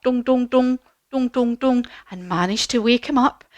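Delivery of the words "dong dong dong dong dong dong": rhythmic dongs, pitched up a little; little metallic knock sounds; knocking noises. Shown as a demonstration. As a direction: imitate tapping on hollow metal. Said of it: "give him a wee knock".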